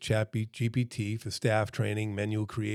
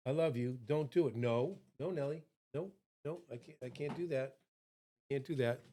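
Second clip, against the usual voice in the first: much softer, hushed pleading; soft hush to dog; 3 semitones higher, 8 dB quieter than usual. Real, not acted. Host hushing his dog Nelly mid-talk, soft and pleading. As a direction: coax the dog quietly so the mic barely catches it.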